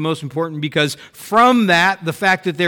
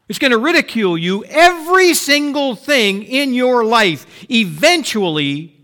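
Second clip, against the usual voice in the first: preaching build; 4 semitones higher, 4 dB louder than usual. Acted. Preacher warning the congregation everything will fail, building to a climax. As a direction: climb from hush to full preaching force.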